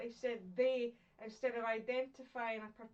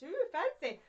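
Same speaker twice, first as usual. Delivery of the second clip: high, louder playful ooh fancy; mock impressed; 5 semitones higher, 5 dB louder than usual. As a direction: tease the fancy word. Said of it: "mock impressed at term".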